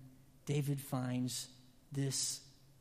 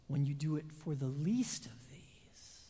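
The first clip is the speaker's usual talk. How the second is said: hushed whisper of Jesus' words. Acted. Preacher quoting Jesus to the congregation in a whisper. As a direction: breathe the line as a whisper.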